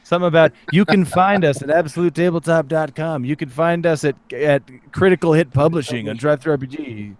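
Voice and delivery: lightly sultry host voice; sexy voice. Acted. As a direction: purr the plug a little seductively. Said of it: "you have your sexy voice on for it".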